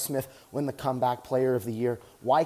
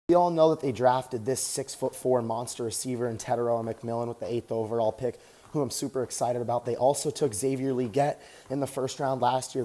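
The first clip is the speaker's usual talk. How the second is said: talking while jogging on a treadmill; a little winded mid-run; while running. Real, not acted. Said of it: "Just getting some cardio in right now".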